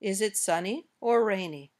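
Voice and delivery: "sunny" rises, "rainy" falls; choice-question intonation. Shown as a demonstration. Teacher gives learners a choice question, rise then fall. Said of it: "Now say these sentences".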